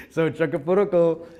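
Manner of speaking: Chacapuruco said loud and clear for the room; name for the audience. Shown as a demonstration. Leading the audience to repeat Chacapuruco. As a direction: call out Chacapuruco loudly so all can repeat. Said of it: "can you all say that".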